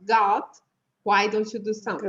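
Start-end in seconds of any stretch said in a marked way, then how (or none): 0.0-0.4 "God" with an A pulled from the throat; unrounded back A in "God"; throaty A in "God". Shown as a demonstration. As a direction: say "God" nearly like "gut". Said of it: "puxado no fundo da garganta".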